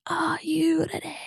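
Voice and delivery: slow, drawn-out TV announcer call in a mock Scottish accent; Gladiators host. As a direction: boom it out like a Gladiators referee. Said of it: "You reminded me of the Gladiators".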